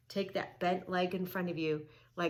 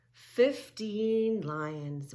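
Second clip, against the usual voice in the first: calm slow; 2 semitones higher, 4 dB louder, much slower than usual. Shown as a demonstration. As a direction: hush it down for resting pose.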